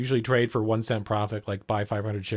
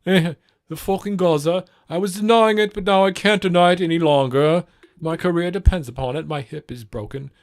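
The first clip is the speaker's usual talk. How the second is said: mock Piers; 5 semitones higher, 6 dB louder than usual. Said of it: "to being like".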